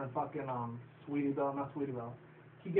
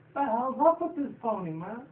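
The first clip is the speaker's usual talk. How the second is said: higher, louder incredulous outburst; mock disbelief; 8 semitones higher, 4 dB louder than usual. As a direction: ham up your own baffled reaction. His own reaction, retold.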